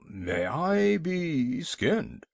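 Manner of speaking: put-on slow, drawn-out old walrus exclamation; old walrus exclaiming. A narrator's reading. Old walrus startled by the little seal, slow exclamation. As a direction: stretch it like a drowsy old beast.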